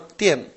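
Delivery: "Tien" with a falling pitch; teacher's clear falling "Tien"; fourth tone. Shown as a demonstration. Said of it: "en el cuarto tono".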